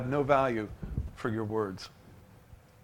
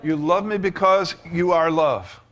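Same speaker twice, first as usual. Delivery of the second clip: a touch louder, earnest prayer; model prayer; 3 semitones higher, 4 dB louder than usual. Acted. Preacher modelling a prayer for the congregation, earnest. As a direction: pray it out boldly. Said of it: "Just say".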